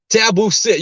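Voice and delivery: loud, forceful dog command; Brianna voice. Retold or imitated. Alpha owner commanding the schnauzer, Brianna voice. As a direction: order the dog with authority. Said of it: "go into my Brianna voice".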